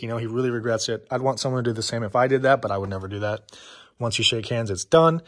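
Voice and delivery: short of breath after lifting. Real, not acted. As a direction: talk while still catching your breath. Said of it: "Sorry, I'm out of breath".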